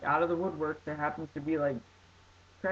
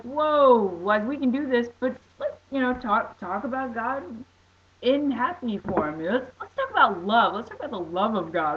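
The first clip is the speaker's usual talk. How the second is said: excited; 5 semitones higher, 3 dB louder than usual. Retold or imitated. Quoting himself, getting loud.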